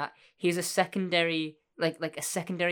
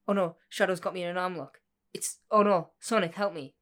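vintage cartoon voice; 4 semitones higher than usual. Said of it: "I'm doing so many Sonic references".

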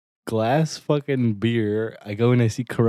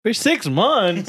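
whiny, drawn-out mock sob, high and slow; fake crying; 8 semitones higher, 4 dB louder, much slower than usual. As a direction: stretch it out like a fake whimper. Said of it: "Oh, boo-hoo".

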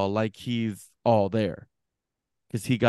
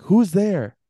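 high, louder retold challenge; calling out; 7 semitones higher, 5 dB louder than usual. Homeowner calls to whoever is behind the door, retold challenge. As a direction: call through the door in mock alarm.

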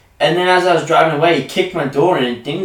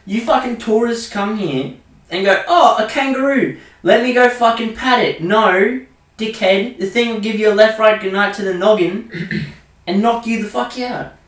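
loud rant; 7 semitones higher, 4 dB louder than usual. Real, not acted. Ranting at tourists about wildlife.

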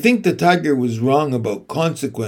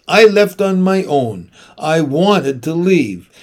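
angry firm; 3 semitones higher, 5 dB louder than usual. Acted. Mom angry.

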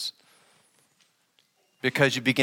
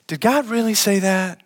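serpent voice; 5 semitones higher than usual. Retold or imitated. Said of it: "What did he say?".

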